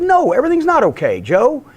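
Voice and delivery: a hint of telling off a hovering coworker; retorting angrily. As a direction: snap back at the pestering coworker. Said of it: "I said".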